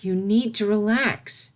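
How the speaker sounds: slow calm reassurance; calm the panicking child gently; soothing. Acted. Celestia soothing her panicking student, slow and calm. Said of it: "as soothingly as she could".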